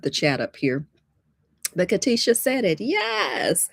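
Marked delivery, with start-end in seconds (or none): 2.8-3.7 high, triumphant yes; thrilled teacher getting the answer; delighted yes. Real, not acted. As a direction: pitch it way up in celebration. Cheers viewer's correct answer.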